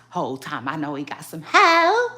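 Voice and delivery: shouting it through a laugh; cracking up loudly as she says it. Real, not acted. Cackling at the diss she quotes.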